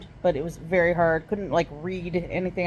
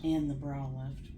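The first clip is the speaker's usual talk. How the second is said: weak after surgery; 6 semitones lower, 11 dB quieter than usual. Real, not acted. Patient just out of surgery.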